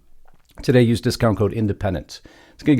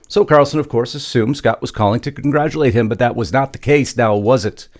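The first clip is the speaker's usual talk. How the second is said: raised, louder news-script delivery; news story read; 3 semitones higher, 5 dB louder than usual. Acted. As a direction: read the script out with punchy emphasis.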